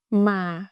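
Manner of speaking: "ma" with pitch going down; "ma" in the falling huyền tone. Shown as a demonstration. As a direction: let "ma" sink gently. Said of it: "you can hear the falling down".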